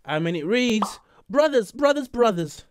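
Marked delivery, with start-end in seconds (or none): 1.3-2.7 high, strained mock singing of the word; wrong version. Shown as a demonstration. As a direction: belt it up high like a bad imitation. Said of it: "I don't think it sounds like that".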